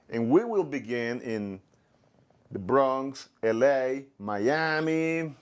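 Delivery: lightly voiced military briefing; a hint of a stern general giving orders; Pentagon general. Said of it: "imagine the meeting at the Pentagon".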